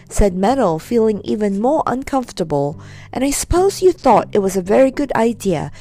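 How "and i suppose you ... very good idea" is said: getting louder. Acted. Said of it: "her voice getting louder and louder".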